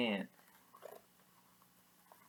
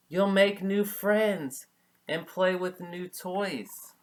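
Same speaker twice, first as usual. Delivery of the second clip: gentle mother; 7 semitones higher, 7 dB louder, slower than usual. Acted.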